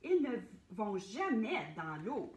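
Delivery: Clovy calling loudly to the water; loud warning call. Acted. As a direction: call down to the tiger. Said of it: "lui cria Clovy".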